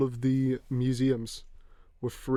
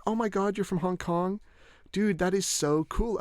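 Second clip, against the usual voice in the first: higher-pitched gushing imitation; mock amazed tourist; 6 semitones higher, slower than usual. Stranger gushing to a tourist from Hong Kong, mock amazed. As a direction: put on a starstruck stranger's enthusiasm. Mimics an excited tourist reacting.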